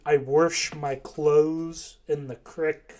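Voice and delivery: slow, drawn-out mock Kentucky accent. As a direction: lightly imitate a Kentucky drawl, slowly. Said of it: "The accent from Kentucky's crazy".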